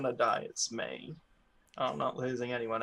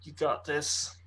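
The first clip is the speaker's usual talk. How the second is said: whispering; slower than usual. Real, not acted. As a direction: whisper support to a friend. Encouraging nervous player.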